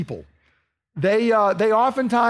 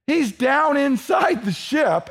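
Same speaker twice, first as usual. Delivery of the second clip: preaching shout; 4 semitones higher, slower than usual. Real, not acted. Preacher dramatizes Jonah's hiding.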